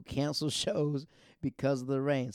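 laughing. Real, not acted. Laughing at himself.

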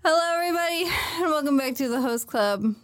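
laughing through a cheery welcome; show host intro. Acted. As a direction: open the show, cracking up. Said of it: "podcast intro".

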